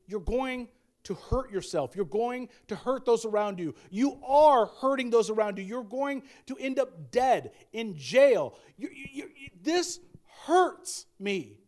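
emphatic, pleading warning; acted anguish, stressed words punched out; pained confrontation. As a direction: press each warning home from the heart. Acted heartfelt confrontation of loved one.

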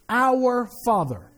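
Our and Father each drawn out and leaned on, falling at the end; slow, weighty Our Father. Shown as a demonstration. Preacher slowing down to make the congregation weigh Our Father. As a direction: let "Our Father" land slowly, word by word. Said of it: "These two words right here are so critical".

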